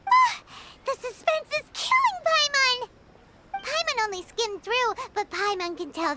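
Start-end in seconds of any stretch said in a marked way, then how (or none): 0.1-2.9 can't wait another second to know; impatient excitement. Real, not acted. Paimon impatient while reading novels.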